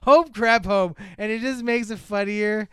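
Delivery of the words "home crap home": loud, drawn-out exasperated groan of words; slow, hammed-up movie quote, louder; Tom Hanks. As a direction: imitate a comic actor's big weary homecoming. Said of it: "hear it in Tom Hanks' accent".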